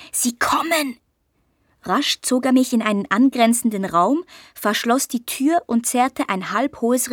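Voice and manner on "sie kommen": scharf geflüsterte Warnung; gezischt. A narrator's reading. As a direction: zischend flüstern, damit sie keiner hört. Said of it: "zischte Justus". (tonlos gezischte Warnung)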